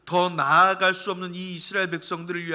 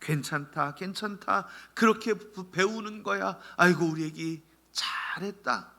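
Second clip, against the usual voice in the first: comforting dad. Retold or imitated. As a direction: soothe the child while patting his back. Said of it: "등을 토닥거리면서 얘기합니다".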